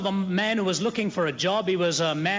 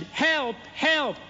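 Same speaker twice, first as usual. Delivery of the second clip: mock cry for help; 6 semitones higher than usual. Man fallen into the lion's den calls out, mock shout. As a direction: pretend panic, crying out. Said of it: "And he shouted".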